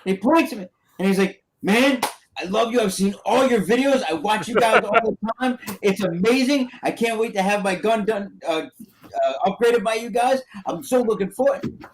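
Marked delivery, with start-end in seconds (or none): 1.6-11.8 higher-pitched, mock-starstruck praise; gushing fan. Teenage fan meeting the airsoft host, gushing. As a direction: imitate a young fan gushing to his idol.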